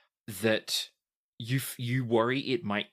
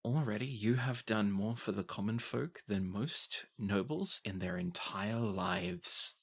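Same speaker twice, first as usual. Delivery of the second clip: softer, confiding so no one overhears; quiet aside; 5 dB quieter than usual. Acted. Varas confiding in the three of you, quietly and softer. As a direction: lean in and tell them quietly. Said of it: "to the three of you quietly".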